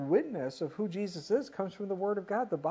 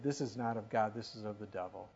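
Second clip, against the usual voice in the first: low and much softer, as if confiding; hushed dismissal; 7 semitones lower, 7 dB quieter than usual. Retold or imitated. Leaders muttering that his works are the devil's, hushed and low. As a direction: drop the voice to a sneering hush.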